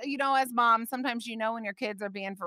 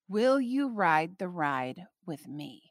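very calm; 3 semitones lower, slower than usual. Retold or imitated. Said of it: "very calmly".

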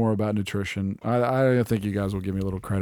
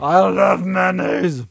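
higher, slow, loud declaration; mayo shout; 9 semitones higher, 6 dB louder, slower than usual. Retold or imitated. Husband answering his wife, shouting slowly. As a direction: proclaim it proudly. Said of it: "And I'm like".

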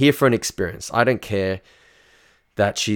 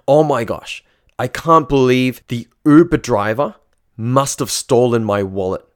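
mock dramatic read; 4 dB louder than usual. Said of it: "It said".

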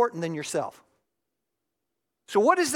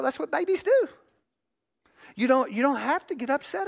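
calm parent; 6 semitones higher than usual. Retold or imitated. Calm parent accepting baby.

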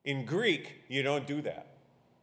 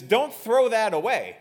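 raised, emphatic pulpit reading; scripture reading; 8 semitones higher, 7 dB louder than usual. Real, not acted. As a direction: proclaim the verse loudly to the congregation. Reads scripture to congregation.

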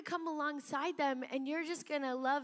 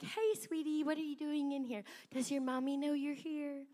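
gentle asking, as a kind adult would; sweet and gentle. Shown as a demonstration. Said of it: "there's a way to say it".

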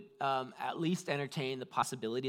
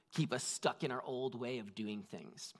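whispered, intimate; 3 semitones lower, 6 dB quieter than usual. Real, not acted. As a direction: let the line fall to a whisper. Quiet close of sermon point.

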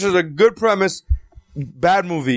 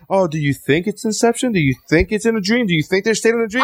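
mock teasing questions, slightly raised; mocking quote; 4 semitones higher than usual. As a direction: mimic a coy director's leading questions. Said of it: "Don't give me this".

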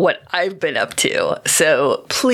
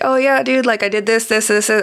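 higher-pitched, mildly excited dude recounting the day; excited friend; 5 semitones higher, faster than usual. Acted. Friend answering how the day was, lightly excited. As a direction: play an eager friend lightly.

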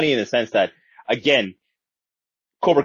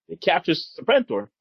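ordinary talk

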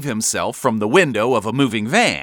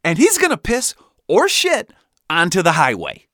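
loud, raised-pitch proclamation; manic dad yell; 6 semitones higher, 6 dB louder than usual. A narrator's reading. Dad finishing his plan for the highway, yelling. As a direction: shout each part of the plan emphatically.

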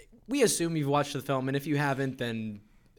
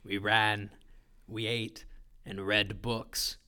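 a light put-on New Zealand movie accent; 4 semitones lower than usual. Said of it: "That was an awful Australian accent".

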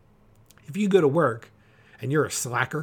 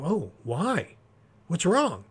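concerned boss; 4 semitones higher, slower than usual. Retold or imitated. Boss asking a good worker.

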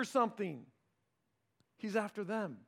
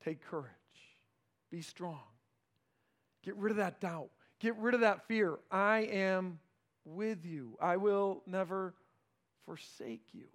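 tender reassurance; 2 semitones lower than usual. Acted. Jesus comforting the listener.

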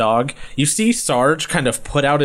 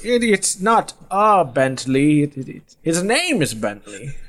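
lightly voiced old man; 4 semitones higher than usual. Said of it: "He says".

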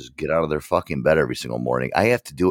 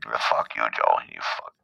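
Caps impression; 7 semitones lower than usual. Caps signing off with curses at Joe, low impression. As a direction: let the insults sink to a rasp. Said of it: "fake Caps".

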